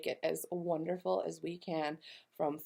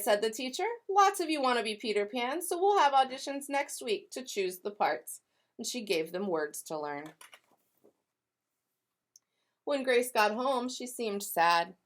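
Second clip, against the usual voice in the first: lively read-aloud with voiced characters; storybook narration. A narrator's reading. Teacher reading to kindergartners, animated storytelling. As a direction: tell it like a picture book for kids.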